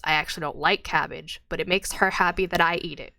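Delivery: grumbling ogre. Acted. Ogre admits to the adventurer he hates cabbage, mildly sour. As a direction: spit it out sourly. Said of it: "he kinda spits and goes".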